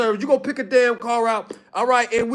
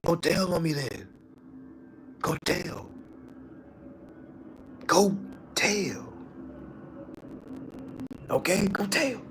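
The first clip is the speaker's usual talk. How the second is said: much softer, slow mock dare; taunting; 3 semitones lower, 13 dB quieter than usual. Mocking a client who threatens to tell, soft taunting dare. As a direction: dare them softly to go tell.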